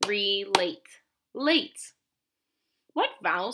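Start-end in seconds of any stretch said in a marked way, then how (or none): 0.1-1.0 "Relate" drawn out as two beats, re and late; "Relate" in two even parts for a learner; syllable by syllable. Shown as a demonstration. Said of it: "What's the second syllable?". 1.3-1.9 "late" alone, higher and louder; "late" sounded out clearly with long A; isolated syllable. Shown as a demonstration. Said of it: "What's the second syllable?".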